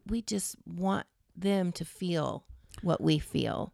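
slow, quiet realization; musing slowly under the breath; slow and soft. Real, not acted. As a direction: let it land slowly and softly. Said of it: "Say that again".

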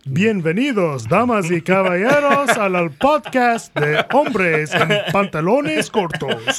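slow Spanish ring announcer welcome; lucha libre announcer. Acted. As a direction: greet the crowd like a Spanish TV host. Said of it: "the galaxy was on Univision again".

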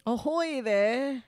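put-on drawn-out seafaring Maine accent; Maine lobsterman. Attempting a Mainer accent, slow mock seaman. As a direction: stretch it slowly like a hammy lobsterman. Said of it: "like, the lobster guys going".

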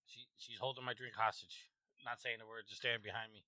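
very quiet, hushed voice. Real, not acted. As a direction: keep it down, she's right behind. Wife standing silently behind him.

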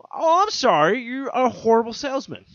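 sarcastic apology. Retold or imitated. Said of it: "I'm like".

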